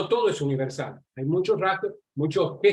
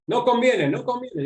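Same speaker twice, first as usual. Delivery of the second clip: high-pitched mock refusal; imitated displeased shopkeeper; 7 semitones higher than usual. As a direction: imitate a Chinese customer turning down a deal. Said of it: "ya estaba enojado".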